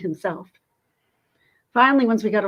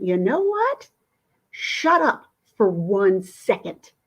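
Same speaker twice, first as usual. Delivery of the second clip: retold telling off; 4 dB louder, slower than usual. To the shouting driver, a slow stern shut-up. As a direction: cut him off, slow and stern.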